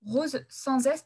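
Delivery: slow dictation, "rose sans S" stretched; spelling it out slowly. Shown as a demonstration. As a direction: spell the words out so they can be typed. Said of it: "maison avec un S, rose sans S".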